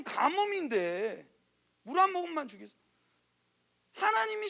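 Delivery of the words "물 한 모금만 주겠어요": falling, disbelieving echo; incredulous restatement. Shown as a demonstration. Preacher mocks the request to the congregation, incredulous. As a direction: repeat the request as if it's absurd. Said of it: "여러분, 미친 거 아니에요?".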